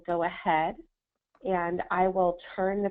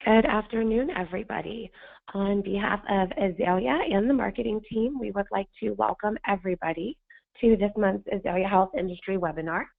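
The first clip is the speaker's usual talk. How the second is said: hoarse, scratchy sandpaper voice. Real, not acted. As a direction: push through a hoarse, sandpaper throat. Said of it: "I sound like sandpaper today".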